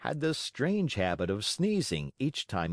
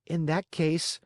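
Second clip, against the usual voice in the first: higher, small puppet voice; Pinocchio; 8 semitones higher than usual. A narrator's reading. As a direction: answer like a timid wooden boy.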